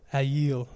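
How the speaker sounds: "Ayil" with a short A as in cat, then yeel; copied pronunciation. Shown as a demonstration. Teacher passing on a pronunciation he listened to, "Ayil" as a-yeel. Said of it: "is how the guy pronounced it".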